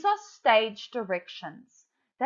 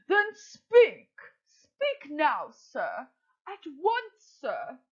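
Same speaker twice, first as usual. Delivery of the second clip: high, eager, pushing mother crow; impatient Madam Crow; 4 semitones higher, much slower than usual. Acted. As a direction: urge him on, pitched up and hurried. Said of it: "I'm going to put on a voice".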